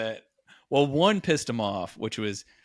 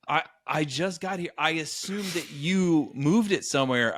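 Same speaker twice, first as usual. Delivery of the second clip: higher-pitched, play-acted denial; innocently deflect the blame; feigned innocence; 4 semitones higher than usual. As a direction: imitate yourself playing innocent. Retold feigned innocence to angry roommate.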